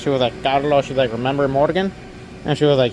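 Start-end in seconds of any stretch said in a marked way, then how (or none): 0.4-0.8 lightly imitated Mexican accent. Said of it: "in her Mexican accent". 1.1-1.9 imitated Mexican-accented question, rising at the end. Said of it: "in her Mexican accent".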